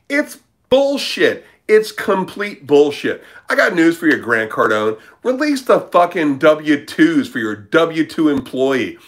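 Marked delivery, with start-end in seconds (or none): 0.1-5.6 indignant rant. Real, not acted. Ranting about a guru.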